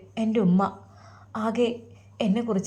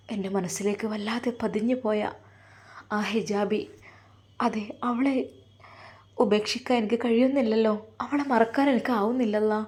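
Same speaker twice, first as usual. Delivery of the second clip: soft, hurt inner monologue; a quiet, heartbroken sigh of a son; sad lament; 4 dB quieter than usual. Acted. Son alone in his room, grieving his lost love, softly.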